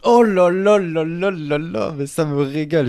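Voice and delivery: high, loud, drawn-out oh là là; thrilled by the choice; real delight, slow and pitched high. Real, not acted. Delighted by pick Mark Landers.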